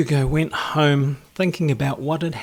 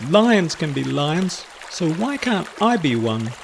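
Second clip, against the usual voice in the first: wailing; 4 semitones higher, 4 dB louder than usual. Acted. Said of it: "he wailed".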